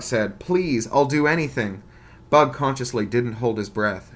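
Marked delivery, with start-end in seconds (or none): 0.4-1.8 faked begging. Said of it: "tried to play the part".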